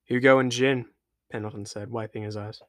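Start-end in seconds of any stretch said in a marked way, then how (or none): 0.0-0.9 louder, lightly voiced sailor in mild grief; name the fallen; grieving crewman. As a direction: sailor naming his dead shipmates. Pendleton names the dead.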